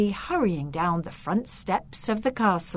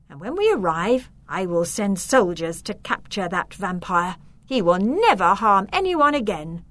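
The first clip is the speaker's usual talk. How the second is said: decisive; 3 dB louder than usual. Acted. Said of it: "The Countess said in a decisive voice".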